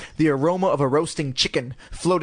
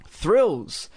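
sarcastic; 4 semitones higher than usual. Acted. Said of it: "Lindy replied sarcastically".

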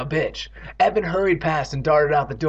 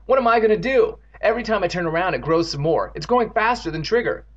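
high-pitched worried outburst; distressed cry; 5 semitones higher than usual. Acted. Evan cries to Andy about growing goo, distressed. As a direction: pour out rising worry. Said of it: "Evan cried".

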